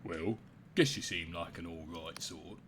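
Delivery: lightly voiced old-timer telling town history; a hint of a village old-timer; old townsperson. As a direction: recount local lore as a long-time resident. Old townsperson shares secret route.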